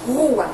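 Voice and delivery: Rua with a strong guttural R, loud; strong R demo. Shown as a demonstration. Teacher modelling the strong R for pupils, loud. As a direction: show the strong R sound in Rua. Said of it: "Ó o som".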